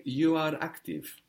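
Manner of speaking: "you" picked out with emphasis; stress on YOU. Shown as a demonstration. Teacher asks student for a translation, emphasizing "you". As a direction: lean on "you". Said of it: "Emphasizing you".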